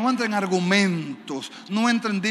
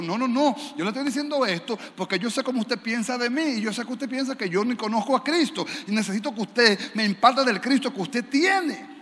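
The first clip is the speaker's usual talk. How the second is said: mock insistent tone; 4 semitones higher than usual. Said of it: "no se lo estoy diciendo en ese tono".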